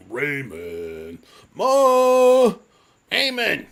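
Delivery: loud, high mock sitcom call of Raymond; Raymond family yelling. Mocking a sitcom family calling across the house, loud and high. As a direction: ham up a sitcom mother calling her son. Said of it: "It's all based on, like, people's voice".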